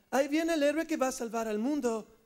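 understated contrast to the hero; onlooker character. Acted. Onlooker warning Jonathan of the hero, even delivery. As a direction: announce the arrival evenly, without the swoops. Onlooker announces the hero's arrival.

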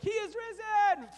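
one man cheering alone; lone excited shout. Pretend. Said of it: "I was excited and I was like".

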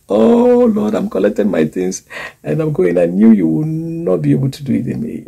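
mock storming off in a huff; a hint of huffy complaint. Acting out unbelieving believer.

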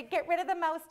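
loud, high mock command; retold parental order. Mother recalling orders to her child, loud retold command. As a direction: call it out like a parent.

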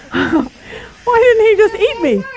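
high, slow, giggling bird voice; laughing as confused crow. Pretend. Preacher laughing while voicing the confused rescued crow. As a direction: laugh through the crow's bewildered question.

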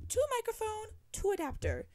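laughing through it. Real, not acted. To listeners about the spare mics, laughing. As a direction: laugh out the words at her own mess. Repeating her own silly count.

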